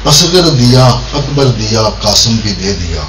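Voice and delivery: poem recitation. Acted. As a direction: recite each phrase separately, descending to the refrain. Recites verse in short phrases.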